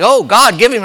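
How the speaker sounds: high, loud plea to God; pleading Samuel. Retold or imitated. Samuel pleading with God for Saul, high and loud. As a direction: beg God for the king.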